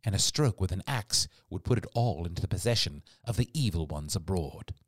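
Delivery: ordinary delivery, nothing marked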